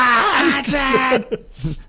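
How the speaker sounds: high Scottish call; broad Scottish accent. Retold or imitated. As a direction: cry out in a thick Glasgow accent. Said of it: "really heavy Scottish accent".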